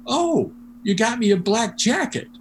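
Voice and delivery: high-pitched imitated gift reaction; lifted, playful retold surprise; mock pleased surprise. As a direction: act out mild delight at a present. Acting a musician's reaction to gift.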